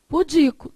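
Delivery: Pudico said as pu-DI-co; stress on DI. Shown as a demonstration. Teacher reading the word out, Pudico stressed on DI. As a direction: put the strongest syllable on DI in Pudico. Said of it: "A sílaba mais forte é essa daqui".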